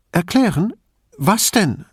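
put-on Erklären with a high rising question, old lady voice; Erklären tossed back high and rising; puzzled old woman. Old woman echoes in surprise.

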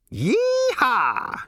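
high, loud cowboy whoop; exultant cowboy holler; whooping yee-haw. A narrator's reading. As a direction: let out a wild yee-haw as the ship launches. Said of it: "shouted Ford".

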